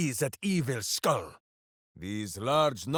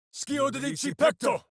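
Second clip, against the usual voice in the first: spell incantation; 10 semitones higher than usual. Acted. Shouted incantation.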